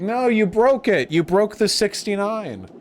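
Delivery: high, drawn-out protest; mock dismay. Streamer to donor who spoiled the sixty-nine, mock-dismayed protest. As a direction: wail it slowly, up in pitch.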